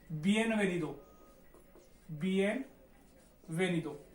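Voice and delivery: slow, syllable by syllable; बिएनवेनिदो drawn out as bi-en-ve-ni-do; Spanish bienvenido. Shown as a demonstration. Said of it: "उसको बोलते हैं".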